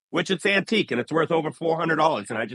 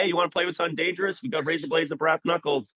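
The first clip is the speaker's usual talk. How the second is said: quick, higher-pitched mock offer; joking icebreaker; 4 semitones higher, faster than usual. Barber teasing kids in front of parents, joking icebreaker. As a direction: lift the pitch and rush the playful offer. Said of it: "break the ice with the parents and be like".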